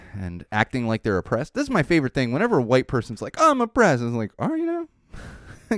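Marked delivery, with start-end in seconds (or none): 3.4-4.0 higher and louder, whining; mock whiny complaint. Mocking white person's complaint. 4.4-5.8 very high, slow, drawn-out doubt; sarcastic retort. Retold or imitated.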